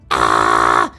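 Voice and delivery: low, loud raspy ah; short harsh throat rasp; false chord rasp. Shown as a demonstration. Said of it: "take those false chords".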